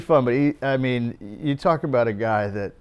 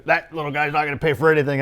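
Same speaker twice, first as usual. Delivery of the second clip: scoffing; 2 semitones higher, faster than usual. Retold or imitated. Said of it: "he goes".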